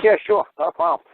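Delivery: cheery clerk. Retold or imitated. Town clerk agreeing to post the bill, cheery and high. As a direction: chirp it like an eager clerk.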